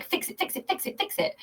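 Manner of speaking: hissed fix it, fix it; urgent whispered chant; whispered urging. Retold or imitated. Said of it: "My head's like".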